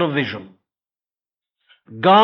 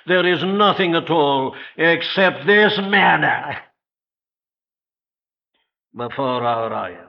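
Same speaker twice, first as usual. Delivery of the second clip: quoting with a sneer, pitched up at the start; grumbling Israelites, mildly contemptuous; contemptuous whining; 3 semitones higher than usual. Retold or imitated. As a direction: let scorn drip from the complaint. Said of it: "Do you get the note of contempt".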